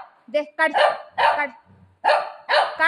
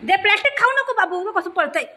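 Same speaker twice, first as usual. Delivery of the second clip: higher-pitched pleading reprimand; urgent scolding; 5 semitones higher, faster than usual. Real, not acted. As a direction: scold a runaway pet in a raised pitch. Scolding dog running off with plastic.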